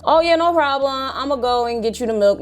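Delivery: high, over-eager mock agreement; Ricardo. Imitating Ricardo answering father's milk request, mock eager.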